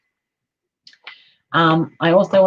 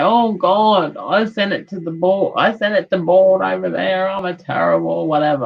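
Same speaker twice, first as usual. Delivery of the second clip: guilty parent; 4 semitones higher, 4 dB louder than usual. Retold or imitated. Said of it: "And we might go".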